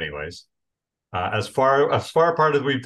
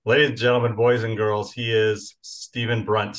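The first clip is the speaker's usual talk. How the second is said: grand entrance announcement; 4 dB louder than usual. Acted. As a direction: present the guest like a headliner. Host introducing guest grandly.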